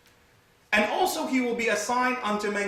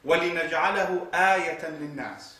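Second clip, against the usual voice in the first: rapid chanted Arabic recitation; Quranic recitation; much faster than usual. Acted. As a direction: recite the verse quickly.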